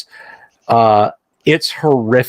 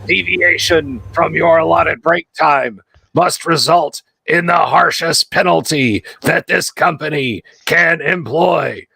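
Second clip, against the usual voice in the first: glitching machine repeating nine, higher pitch; metallic voice filter; 4 semitones higher than usual. Acted. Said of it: "a rasping metallic voice says".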